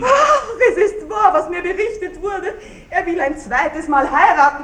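mocking laughter through the words; bitter laughter. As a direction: laugh it out scornfully. Widow bitterly laughs at betrayal. (Witwe verhöhnt den Baron, bitter lachend)

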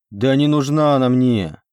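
loud, slow, wailing denial; howling protest. A narrator's reading. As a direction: howl it out like he's been wronged. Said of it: "натурально взвыл Иоран".

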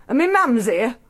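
usual speaking voice

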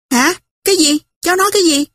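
put-on a scandalized old aunt; a lightly voiced aunt, scandalized; shocked aunt. Aunt shocked by niece's words.

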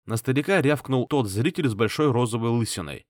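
ordinary delivery, nothing marked

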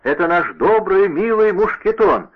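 put-on light up at the sight of an old friend; delighted. A narrator's reading. D'Artagnan greeting Mousqueton with delight, high and glad. Joyful recognition of old servant.

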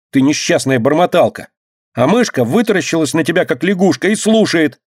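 high, excited whiny demands; capricious shouting. A narrator's reading. Dinka shouting at the boy over the poem, capricious. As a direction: stamp your foot and demand an answer. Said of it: "возбуждённо и капризно кричала Динка".

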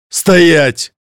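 loud, high barked command; barked order. A narrator's reading. Demon orders the retreating girl to stay, barked loud. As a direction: stop her in her tracks with a bark. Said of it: "рявкнул демон".

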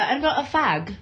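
British phrasing. Retold or imitated. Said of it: "'Cause I went to British school".

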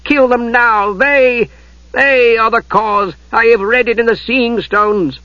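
high, urgent pleading voice; urgent sorceress. Acted. Night Lord clutching Ariakan's arm, urging slaughter. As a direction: press him desperately.

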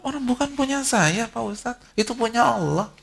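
high, airy shrug of a voice; lightly voiced carefree believer; mock unbothered believer. Preacher voicing a calm believer to the ustadz, high and breezy.

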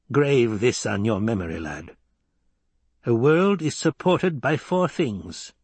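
a lightly voiced stern old woman, slowing at the end; measured old crone's warning to the boy; old Reverend Mother. Reverend Mother warns Paul, lightly voiced stern old woman.

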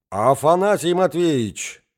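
high, loud unnatural squeal; wife shrieking at her husband. A narrator's reading. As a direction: screech his name. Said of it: "взвизгнула ... неестественным голосом".

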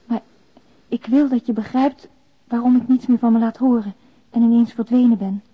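ordinary talk, nothing marked

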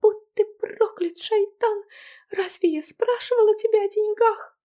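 put-on high, loud furious girl's cry; angry girl's voice. Angry wife cursing her husband, high and loud. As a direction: curse him in a high young woman's voice.

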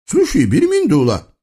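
high, singsong eastern tyrant voice; comic sultan. Acted. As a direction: play a pompous, childish sultan. Sultan calling. (высокий певучий голос капризного султана)

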